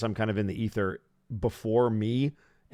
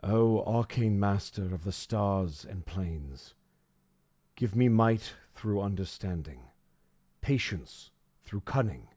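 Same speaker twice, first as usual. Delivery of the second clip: solemn prayer. Acted. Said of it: "begin to speak it aloud".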